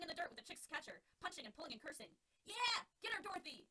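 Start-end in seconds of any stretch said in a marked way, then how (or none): 2.4-3.7 high, loud, excited cheer; root her on in the brawl. Acted. Alex cheering Dorothy on in the fight, high and loud. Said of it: "Alex cheered".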